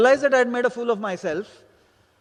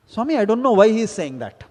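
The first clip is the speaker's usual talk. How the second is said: a touch of angry vigor, a bit louder; mildly annoyed, firm insistence; annoyed retort; 5 dB louder than usual. Retold or imitated. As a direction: retell the reply to the teacher with some force. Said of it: "little bit of vigor in my voice and anger and annoyance in my voice".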